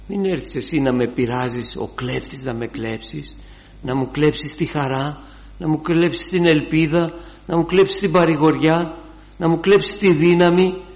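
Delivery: starts plain, climbs to a loud, high preaching cry; building rebuke. Acted. Preacher warns the enemy, rising to a shout.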